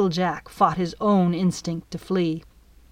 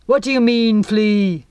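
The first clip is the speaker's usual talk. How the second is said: bellow; 3 semitones higher, 6 dB louder than usual. Acted. Captain bellowing up at Flea in the crow's nest. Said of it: "the captain bellowed".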